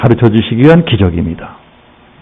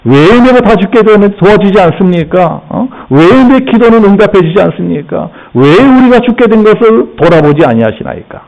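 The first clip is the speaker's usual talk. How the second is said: mildly acted grievance, pitch lifted; resentful complaint; 4 semitones higher than usual. Believer to God over unanswered prayer, lightly acted complaint. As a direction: press each why-question as a reproach. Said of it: "이런 식으로 원망불평합니다".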